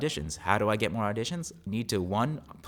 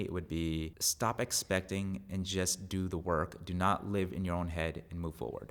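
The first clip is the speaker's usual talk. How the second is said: low ASMR voice; 3 semitones lower, 6 dB quieter than usual. Real, not acted. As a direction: drop into a hushed ASMR tone. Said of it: "You went down low, like, the A S M R type voice".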